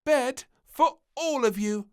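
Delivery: loud, high bossy order; the princess orders the grown-ups back to bed; bossy cry. A narrator's reading. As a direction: send them off to bed like a tiny nurse. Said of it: "she cried".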